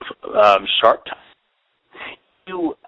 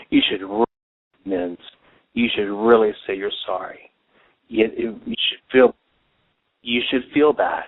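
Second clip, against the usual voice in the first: inner conscience voice. Retold or imitated. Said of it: "it's the same voice saying".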